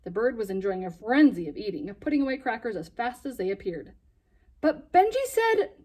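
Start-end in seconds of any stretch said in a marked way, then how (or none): 4.6-5.7 high objection. Acted. Hesitant objection.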